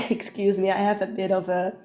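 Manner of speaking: stuffy nose and sore throat voice; blocked nose, sore throat. Real, not acted. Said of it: "a sore throat and my nose is all locked up, but I think you can hear it".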